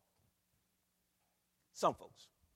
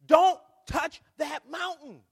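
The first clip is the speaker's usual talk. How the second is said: slow, booming warning, much higher and louder; commanding shout; 9 semitones higher, 16 dB louder, slower than usual. Acted. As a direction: thunder the command like God himself. Preacher voicing God's warning.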